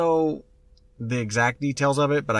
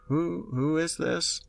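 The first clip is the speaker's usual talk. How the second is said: put-on higher, slow frightened child's question; a frightened little girl asking; scared little girl; 7 semitones higher, slower than usual. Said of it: "And she's like".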